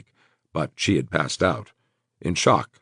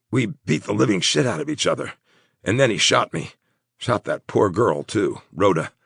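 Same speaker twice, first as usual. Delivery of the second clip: slightly strained, higher voice; wounded Crow; 5 semitones higher than usual. Acted. Wounded man telling his friend what happened, slightly strained. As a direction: recount the fight in broken phrases.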